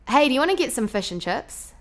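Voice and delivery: New Zealand vowels, lazy flattened I; New Zealand accent. Shown as a demonstration. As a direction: ask it like a Kiwi, fish as "fush". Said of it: "a Kiwi or a New Zealander".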